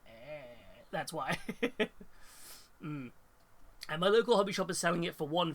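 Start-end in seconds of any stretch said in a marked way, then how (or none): 0.1-0.8 pained groan. Shown as a demonstration. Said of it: "if you see me suddenly start going".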